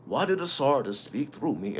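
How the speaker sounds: high, startled outburst of confusion; stunned disbelief. Retold or imitated. Retelling the moment a god spoke through him, stunned. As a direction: sound like something just spoke through you. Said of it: "I'm like".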